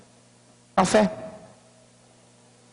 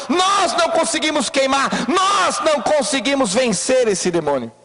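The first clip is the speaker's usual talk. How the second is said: pleading shout; 3 semitones higher than usual. Acted. Preacher voices disciples' plea.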